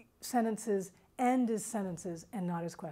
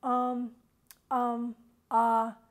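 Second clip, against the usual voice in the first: filler demo; 4 dB louder, much slower than usual. Shown as a demonstration. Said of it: "instead of going".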